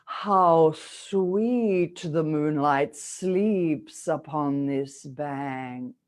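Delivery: very slow, breath-sustained verse line; with all your air. Shown as a demonstration. Coach leads students through the line, very slow with full air. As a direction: stretch every word on a steady stream of air. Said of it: "with all your air".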